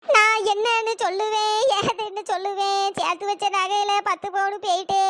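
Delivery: crying lament. Acted. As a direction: moan over the loss through tears. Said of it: "அத்தை please அழுகாதீங்க".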